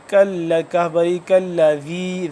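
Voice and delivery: slow ذی with a soft "th" as in "this"; soft dhal. Shown as a demonstration. Teacher showing learners the letter, softly articulated dhal. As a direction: draw out ذی, tongue tip between the teeth. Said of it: "ذال کو بھی نرمی سے ادا کریں گے".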